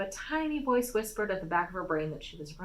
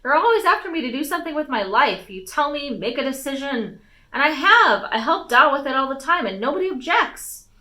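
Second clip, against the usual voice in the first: frustrated pleading; 7 semitones higher, 8 dB louder than usual. A narrator's reading. Daughter's frustrated plea continues.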